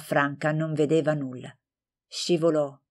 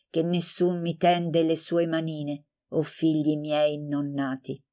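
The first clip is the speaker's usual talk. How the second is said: poem reading. A narrator's reading.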